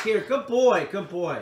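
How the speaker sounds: bright, cheery, upbeat high tone. Praising the young dog during a retrieve, upbeat tone with the dog. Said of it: "with a sort of up tone with the dog".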